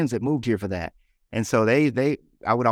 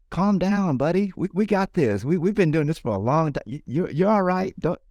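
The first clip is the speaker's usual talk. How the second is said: higher, coaxing voice calming someone down; reassuring pep talk; 6 semitones higher than usual. Retold or imitated. Man reassuring his own ego: a higher, coaxing calm-down. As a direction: talk your nervous ego off the ledge, gently. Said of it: "I have to talk to my ego that way".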